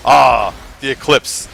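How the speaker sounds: slow, lightly voiced Spock, calm; a hint of Spock's serene wonder; Spock impression. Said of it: "he goes".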